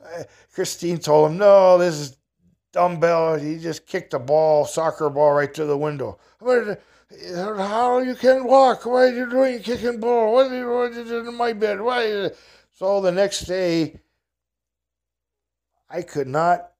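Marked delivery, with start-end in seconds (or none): 1.4-6.2 mock telling-off. Christine scolding, telling on him. 6.4-12.3 much higher, louder, slow broken English outrage; broken-English angry roommate. Retold or imitated. Paul angry about glass in bed.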